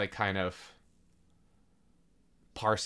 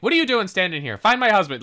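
raised, louder retold scolding; mock yelling; 5 semitones higher, 3 dB louder, faster than usual. Bailey to the men standing outside, mock yelling. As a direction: snap out orders, lightly imitating a yell. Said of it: "like, yelling at them".

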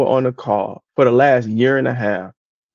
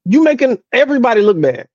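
exasperated; 7 semitones higher than usual. Retold or imitated. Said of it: "And it's like".

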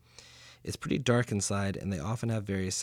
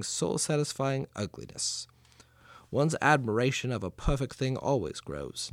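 put-on Mark Twain accent. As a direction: read the quote in a homespun old Missouri storyteller accent. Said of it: "I felt like I should do a Mark Twain accent".

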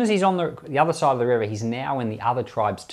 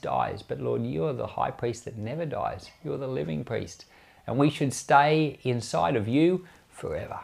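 prayer. Real, not acted. Closing prayer after sermon.

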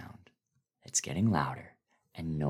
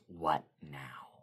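hushed; 3 semitones lower, 9 dB quieter than usual. Acted. Recalling the words from the dream.

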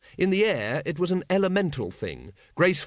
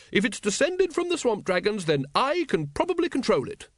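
higher, calling across; calling back; 9 semitones higher than usual. Acted. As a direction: call back to him. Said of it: "she called back".

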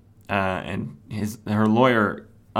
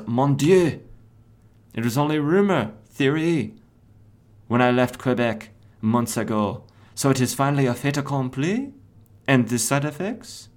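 put-on higher pitched French-accented Plastique; mock French accent, raised pitch; 4 semitones higher than usual. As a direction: lay on a French accent as the villain. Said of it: "French accent".

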